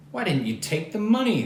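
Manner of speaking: high, loud shocked question; shocked sisters. Acted. Sisters shocked he refused money, loud surprised. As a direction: gasp it out in disbelief. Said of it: "Keith's sisters were shocked".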